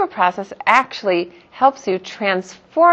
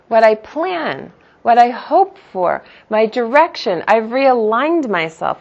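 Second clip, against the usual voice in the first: pleading prayer; 4 semitones higher than usual. Pretend.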